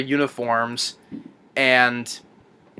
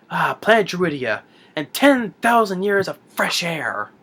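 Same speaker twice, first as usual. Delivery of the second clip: drawn-out, savoring proclamation; retold gloating President; 4 semitones higher than usual. Retold President approaching the planet, grandly savoring it. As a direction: relish each word, slowing down.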